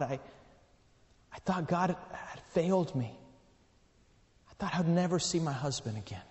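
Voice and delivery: soft, halting confession with pauses; subdued grief. Retold or imitated. Widow confessing she felt God failed her, quietly grieving. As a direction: quietly relive the widow's hurt.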